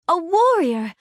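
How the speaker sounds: impressed little exclamation; delighted surprise. Acted. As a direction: react as if thrilled by who has turned up. Character greets a costumed visitor.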